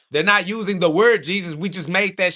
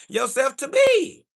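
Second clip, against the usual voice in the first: slow, higher shouted ending; angry shout; 7 semitones higher, slower than usual. Real, not acted. Ranting at a chat commenter, shouting it out. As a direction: yell it down at him.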